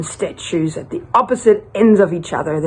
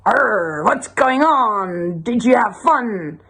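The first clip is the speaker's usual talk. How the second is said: drawn-out, lightly voiced pirate; a hint of nosy pirate; 2 semitones higher, slower than usual. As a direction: stretch the Arr and the question, pirate-style. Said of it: "And the pirate's like".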